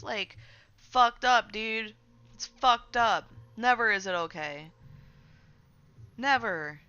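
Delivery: loud, drawn-out indignant outburst; real disgust. Real, not acted. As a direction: come down hard and slow on the swearing. Angry rant about texting minors.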